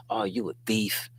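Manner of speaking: whispered accusation, imitating gossip; a sly whispered jab; mock whisper. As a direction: hiss it like a nosy accuser. Mocking what accusers say.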